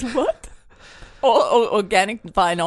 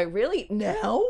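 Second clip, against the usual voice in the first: incredulous; 6 dB quieter, slower than usual. Shown as a demonstration. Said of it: "You gotta go".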